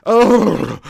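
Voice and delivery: loud drawn-out "oh" to rouse yourself; waking-up groan. Real, not acted. Streamer shaking off a slow start to the day, loud groan. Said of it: "need to wake myself up".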